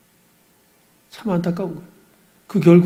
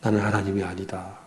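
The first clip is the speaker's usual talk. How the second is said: quiet inner resolve; 9 semitones lower, 9 dB quieter than usual. Retold or imitated. Pastor reminding himself he is not God, hushed. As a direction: murmur it to yourself, much lower and softer. 그렇게 애쓰다가 이 모양이 됐다.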